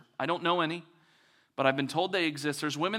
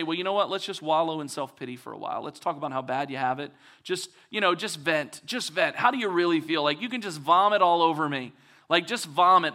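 mock wallowing invite; 4 dB louder than usual.

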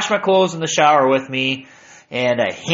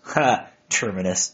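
amused laugh; 5 semitones lower, 4 dB quieter than usual. Real, not acted. Laughs at her word choice.

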